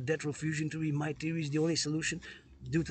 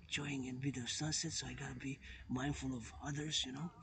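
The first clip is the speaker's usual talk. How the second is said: softer, holding the voice down; speaking less loudly; 6 dB quieter than usual. Real, not acted. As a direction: keep it down so others aren't disturbed. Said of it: "speak less loudly".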